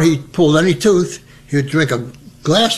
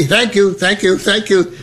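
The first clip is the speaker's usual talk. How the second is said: eager thanks; 5 semitones higher than usual. Retold or imitated. Paper boy thanking customers.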